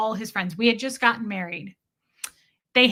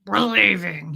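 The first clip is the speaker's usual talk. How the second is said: imitating angry husband's growl; 5 dB louder than usual. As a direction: growl it with a touch of menace. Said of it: "His voice was like".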